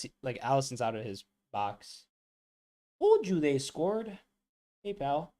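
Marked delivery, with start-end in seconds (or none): 3.0-5.3 high, slow told-you-so; slow smug gloat. Real, not acted. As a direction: rub it in slowly. Telling off a chat user.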